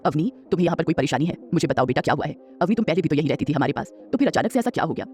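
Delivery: a hint of a gentle old grandmother asking.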